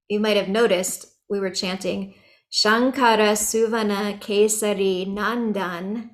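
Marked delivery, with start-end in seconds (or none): 2.5-6.1 Nandan ending on the N, no A after it; slow recitation, stop Nandan at its last N; final A dropped. Shown as a demonstration. Teacher showing how the verse was chanted, final A left off Nandan. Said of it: "without the A at the end".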